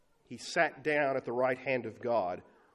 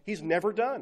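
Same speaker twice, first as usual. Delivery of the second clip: loud, high exasperated verdict on the painter; fed-up complaint; 7 semitones higher, 4 dB louder than usual. Retold or imitated. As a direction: sound done with him. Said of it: "No, you say".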